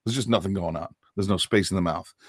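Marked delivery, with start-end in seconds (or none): 0.0-0.9 mumbled, quieter laid-back Malibu accent; lazy Malibu accent. Shown as a demonstration. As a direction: talk like a sun-dazed Malibu beach guy. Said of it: "by the time you get to Malibu".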